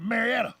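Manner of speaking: Marietta said locally as three syllables, mair-ETT-a; local pronunciation. Shown as a demonstration. Host naming Georgia towns, local pronunciation of Marietta. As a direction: run Marietta together, no 'ee' before the ETT. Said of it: "it's not Marietta. It's Marietta".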